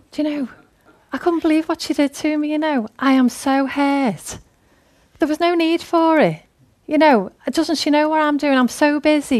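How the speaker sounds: high-pitched, acted indignant moan; gossipy complaint. Complaining to Carol about Mary, mock indignant venting. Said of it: "you go over here and you go".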